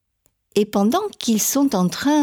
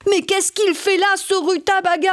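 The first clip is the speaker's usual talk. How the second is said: startled cry, then a higher grandpa's fussing; higher, surprised old Papé voice; 6 semitones higher than usual. Acted. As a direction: grandfather finding his garden crushed. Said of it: "Quand Papé revient".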